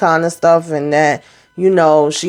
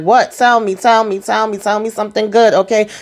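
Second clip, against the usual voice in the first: higher-pitched, excited imitation; eager pleading; 4 semitones higher than usual. Maurice begging on the phone for good news, mock eager. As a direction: act out someone hungry for good news.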